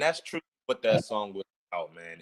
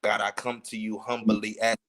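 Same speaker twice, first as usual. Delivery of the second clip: reciting rap lyrics a cappella, every word clear; unhurried lyric recital. Shown as a demonstration. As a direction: chill it out and take your time. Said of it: "I'm gonna take my time".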